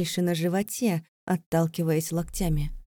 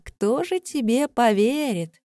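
scornful; 5 semitones higher, 4 dB louder, slower than usual. Acted. Vika mocking Leira.

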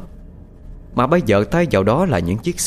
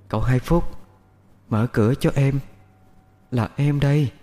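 ghost woman calling, pitched higher; eerie, distant-near voice; 4 semitones higher than usual. A narrator's reading. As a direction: call like a ghost drifting outside the window. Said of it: "tiếng nói như xa như gần". (giọng ma nữ như xa như gần)

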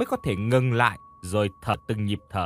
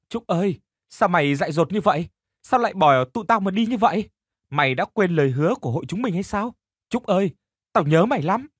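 tearful plea; 6 semitones higher than usual. Acted. Dung crying out to her dead friend, grieving and pleading. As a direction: beg your lost friend to come back. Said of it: "Nhỏ khóc mà tim nhói lên".

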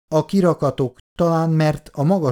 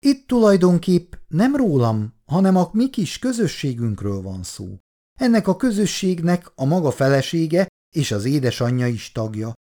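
put-on gushing older lady; 2 semitones higher than usual. Olgi néni flattering Bondi about his wife, gushing. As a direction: gush over his wife with sweet flattery.

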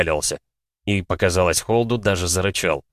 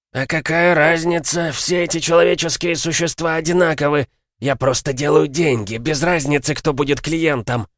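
scornful werewolf; 6 semitones higher than usual. Acted. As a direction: shrug it off with contempt. (презрительно, свысока)

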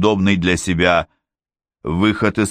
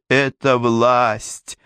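half-coherent shouting; 4 semitones higher, much slower than usual. A narrator's reading. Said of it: "почти бессвязно выкрикивал он слова".

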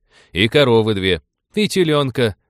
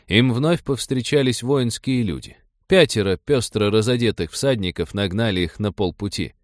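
ordinary delivery

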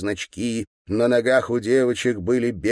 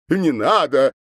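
louder, higher begging cry of не надо; wailing plea; 7 semitones higher, 6 dB louder than usual. A narrator's reading. Governor begging the girls, louder wailing не надо. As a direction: wail не надо like a frightened man. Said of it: "запричитал губернатор".

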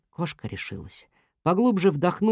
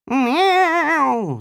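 loud high meow of pain as his tail is pulled; cat yowling as someone climbs his tail; pained meow yelp; 10 semitones higher, 6 dB louder than usual. A narrator's reading. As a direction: yowl like a cat whose tail is grabbed. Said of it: "закричал Котоваська".

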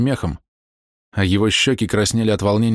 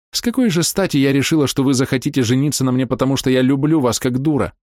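a touch higher, self-mocking and proud; lightly voiced bitter Bella; 6 semitones higher than usual. A narrator's reading. Bella scorning herself before the man, bitter. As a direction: run herself down with reckless pride.

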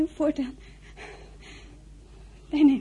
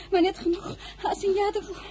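crying; 2 semitones higher, 5 dB quieter, faster than usual. Acted. Girl confessing, breaking down.

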